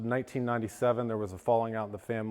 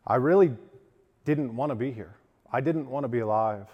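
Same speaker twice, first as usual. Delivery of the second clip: voice cracking; 3 dB louder than usual. Real, not acted. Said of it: "my voice cracks a little bit".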